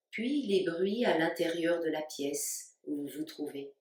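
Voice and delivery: calm, spacious delivery with long pauses between phrases; guided meditation. Real, not acted. Yoga teacher guiding listeners to stay awake while the body sleeps, guided meditation. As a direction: lead them unhurriedly into rest, phrase by phrase. Leads a yoga nidra relaxation.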